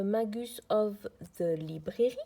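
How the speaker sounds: real French accent on English words. Real, not acted. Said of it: "mon accent anglais aussi merveilleux".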